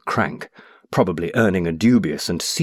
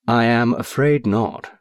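calm; 4 semitones higher, slower than usual. Acted. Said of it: "said the other quite calmly".

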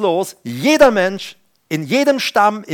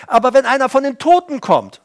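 lightly voiced plea of the rich man in torment; a touch of desperate begging; rich man pleading; 6 semitones higher than usual. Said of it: "Ja, sagt der reiche Mann".

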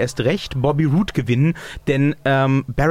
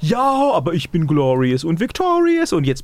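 wrestler trash talk; 3 semitones higher than usual. Retold or imitated. Mock wrestler trash talk promo.

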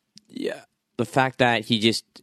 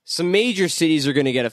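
mock the villain's grand plan; mock Apocalypse voice; 4 semitones higher than usual. Voicing Apocalypse mockingly.

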